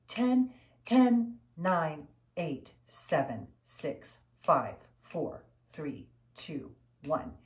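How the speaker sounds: rhythmic count over sharp exhales; ha pulses. Shown as a demonstration. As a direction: count each breath out, punchy and steady. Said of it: "and exhale".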